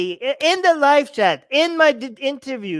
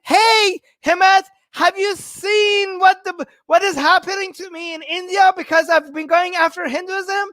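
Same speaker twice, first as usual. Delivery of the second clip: higher, pleading mock call to Hemant; hammed-up cry for help, slowed; sarcastic imitation of himself begging Hemant; mock plea; 4 semitones higher than usual.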